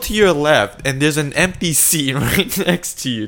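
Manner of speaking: loud, high, incredulous storytelling; excited. Acted. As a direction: build the absurd scene. Animated hypothetical story.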